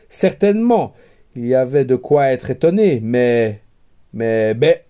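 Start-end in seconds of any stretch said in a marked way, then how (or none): 3.0-4.8 tongue-tied stammer, stuck on mais; a flustered suitor who cannot get words out. A narrator's reading. Suitor to the princess, stammering in confusion. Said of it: "voilà tout ce qu'il put articuler".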